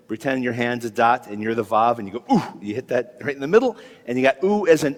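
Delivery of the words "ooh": "ooh" as a lone short vowel; vowel sound demo. Shown as a demonstration. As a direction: pop out "ooh" as its own sound. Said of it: "it sounds like oo".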